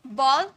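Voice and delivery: "बॉल" with an open aw vowel; BALL vowel. Shown as a demonstration. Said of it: "ये दोनों में क्या फर्क है?".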